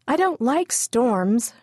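put-on a small girl uneasy at the storm; scared little girl. A narrator's reading. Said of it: "she said aloud".

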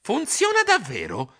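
slow, doubtful question; suspicious. Acted. Stilton doubting the courier's helmet, suspicious. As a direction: ask it warily. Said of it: "chiesi sospettoso".

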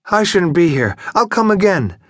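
put-on high, tipsy voice of a drunk geisha; slurring a little, apologetic and pitched high; a woman who suddenly remembers herself; drunken woman.

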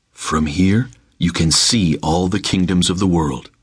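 a calm spirit daring him; tempting spirit. Acted. Spirit on the mountaintop.

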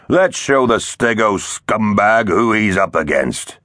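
slow, gruff threat; gruff villain. A narrator's reading. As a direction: growl it slowly at the enemy. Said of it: "a gruffer voice joined in".

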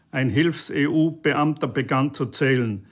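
plain reading voice

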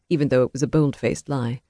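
ordinary delivery

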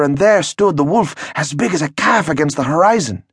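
high, frightened telling of the wolf; frightened peasant. Acted. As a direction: tell it wide-eyed and scared. Peasant tells werewolf tale.

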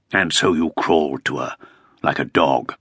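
scornful jibe. Acted. Topcliffe mocks the Earl.

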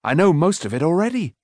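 high, eager boast; calling. A narrator's reading. Boy brandishing a poker at the smith, calling. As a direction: show off excitedly, pitch up. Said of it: "he called".

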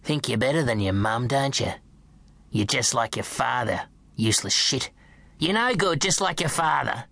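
put-on sneering, cruel old nan; a lightly voiced bitter nan taunting the boy; nasty grandmother. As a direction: spit the insults at the boy. Nan berating boy, voiced by reader.

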